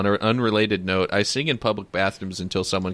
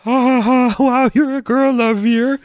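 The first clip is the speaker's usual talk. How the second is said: high, loud mocking cackle; mocking laugh; 5 dB louder than usual. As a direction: jeer like a playground bully. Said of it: "character choices".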